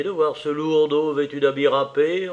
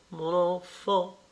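slow, higher stagey repeat; drawn-out theatrical cry; 5 semitones higher, slower than usual. Acted. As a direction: stretch it out for an imaginary audience. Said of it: "s'écria madame Venn, les yeux au plafond". (répétition théâtrale, lente et plus aiguë)

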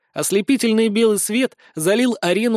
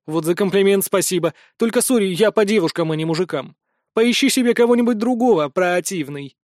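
mocking. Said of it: "шпилька попала прямо в цель".

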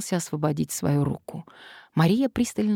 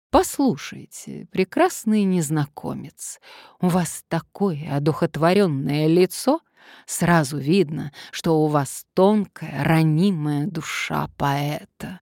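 slightly slurred speech; slower than usual. Acted. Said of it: "слегка заплетающимся языком".

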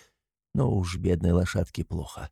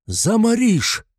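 high, loud, slow warning; shout; 12 semitones higher, 5 dB louder, slower than usual. A narrator's reading. A third man warns Mikolka, high loud shout. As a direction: stretch the warning out. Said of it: "кричит третий".

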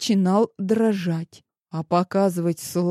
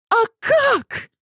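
high, loud shout; закричала; 4 dB louder than usual. A narrator's reading. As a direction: cry out at him. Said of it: "закричала она".

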